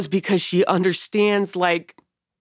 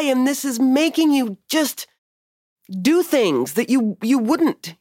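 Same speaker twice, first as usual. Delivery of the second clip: higher, pleading exasperation at a brother; exasperated plea; 5 semitones higher than usual. Pretend. Grieving sister pleading with her brainwashed brother, higher and exasperated. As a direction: shake some sense into him, voice pitched up.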